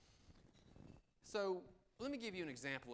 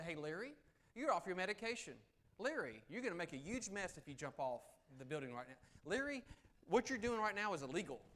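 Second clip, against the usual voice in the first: raised, higher, lecturing Larry; bossy lecturing; 4 semitones higher, 4 dB louder than usual. Shown as a demonstration. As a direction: tell him off loudly from above. Scolding Larry on the ledge.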